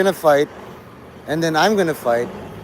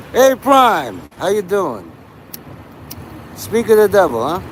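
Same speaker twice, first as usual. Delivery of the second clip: cheery greeting; 4 semitones higher than usual. Real, not acted. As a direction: sing out a hello across the room. Greeting a viewer named Prime.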